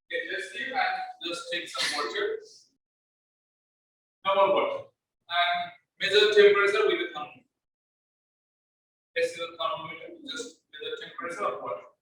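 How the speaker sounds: echoey ringing sound, like in a hall; echoing voice. Real, not acted. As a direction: voice echoing around a big room. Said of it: "sir, এখন ভয়েসটা ইকো হচ্ছে".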